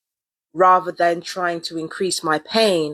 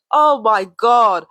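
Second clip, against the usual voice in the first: laughing oh my God; 5 semitones higher, 5 dB louder, much slower than usual. Real, not acted. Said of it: "cracks up again".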